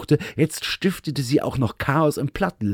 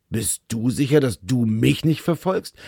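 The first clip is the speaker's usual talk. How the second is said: a touch gruffer. Acted. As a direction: echo her question a bit curtly, stress on "sicher" and "nicht". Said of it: "es kam eine Spur schroffer heraus".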